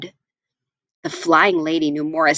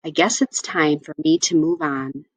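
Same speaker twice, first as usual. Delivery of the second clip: bittersweet sigh; 3 semitones lower than usual. Acted. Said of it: "said with a bittersweet sigh".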